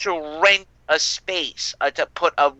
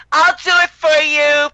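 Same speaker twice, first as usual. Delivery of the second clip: higher, louder sugary helper voice; hammed-up helpful clerk voice; mock white girl; 10 semitones higher, 6 dB louder than usual. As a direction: play the eager clerk, sweet and obliging. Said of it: "White girl".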